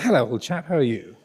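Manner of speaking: a light touch of jolly public school English; posh English accent. Retold or imitated. Consultant greeting the patient at his bed, in posh English accent. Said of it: "I'm not exaggerating his accent".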